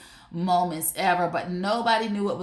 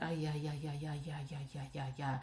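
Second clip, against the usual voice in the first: much softer, lower, drifting ay ay; drowsy fading moan; 5 semitones lower, 14 dB quieter than usual. Retold or imitated. Eyes closed under the massager, fading blissful moan. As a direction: fade into blissful sleepy moans. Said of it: "close your eyes and be like".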